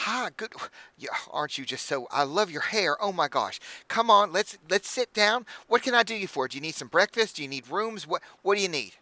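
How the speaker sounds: high, gushing hostess voice; bubbly halfling innkeeper. Acted. Innkeeper welcoming the party, high and gushing. Innkeeper dragging Elizabeth to table.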